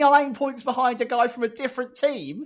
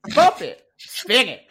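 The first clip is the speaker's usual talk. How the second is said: Bop It voice; 5 dB louder than usual. Retold or imitated. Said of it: "sounds like part of the Bop It controller".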